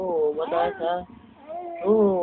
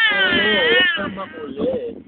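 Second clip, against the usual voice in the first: put-on baby voice; 13 semitones higher, 4 dB louder than usual. Parent voicing baby, cries.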